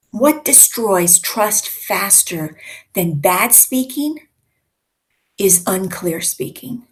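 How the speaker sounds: slow, with a clear pause before is unclear speaking. Shown as a demonstration. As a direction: hold a beat after bad speaking, then land is unclear speaking. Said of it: "There was a pause there".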